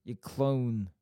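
Bolton "clone" meant as clown; attempted Bolton accent. Shown as a demonstration. Host echoing co-host, imperfect Bolton accent. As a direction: copy the Bolton vowel, landing on "clone". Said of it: "almost does sound like clone".

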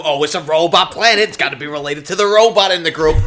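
loud mock-offended protest; indignant. Companion protesting the robot planet assumption, loudly indignant. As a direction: object loudly, throwing the assumption back.

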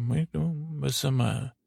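indistinct mumbled gibberish; Mumble Bear. Acted. Bear answers how to find Judy, mumbling. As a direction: mumble it past understanding. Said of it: "mumble translation".

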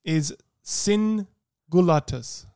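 hammed-up Latin accent; slow, grand fake Latin accent; mock Latin accent. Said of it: "Why are you putting an accent on?".

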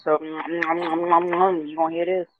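smacking while eating; talking through a mouthful of rice; mouth full. Real, not acted. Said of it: "I am double smacking on this goddamn fried rice".

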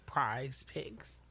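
low, hushed repeat; odd delivery. Shown as a demonstration. Co-host repeating her odd phrase, low and hushed. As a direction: say it small, low and under your breath. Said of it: "did you say it like that".

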